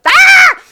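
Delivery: sudden loud high alarmed yelp; panicked parent yelp. Retold or imitated. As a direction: shriek like a startled parent. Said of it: "the parent is like".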